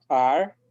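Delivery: ar said firmly as one retroflex syllable; ar demo. Shown as a demonstration. Teacher repeats ar so students can copy. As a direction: model ar clearly for the class. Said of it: "se pronuncia ar".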